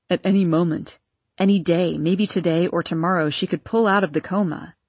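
lightly voiced husband; Arden's voice. Arden continues to Vera.

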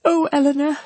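high-pitched cry of misery; anguished. A narrator's reading. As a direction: wail it high, near to sobs. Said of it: "in the anguish of her heart".

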